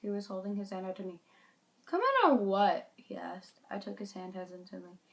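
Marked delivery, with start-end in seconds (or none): 1.9-2.9 stranger's call. Acted. Stranger offering a hand.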